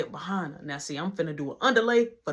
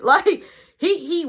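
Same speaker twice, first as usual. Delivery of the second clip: laughing; 10 semitones higher, 7 dB louder, slower than usual. Real, not acted. Laughing while describing the husband.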